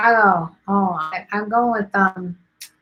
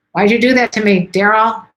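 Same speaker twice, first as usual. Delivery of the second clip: louder, playful whine at a viewer; half-joking protest, louder; mock complaint; 3 semitones higher, 7 dB louder than usual. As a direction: tease Daryl for the pizza craving. Viewer mentions pizza, mock complaint.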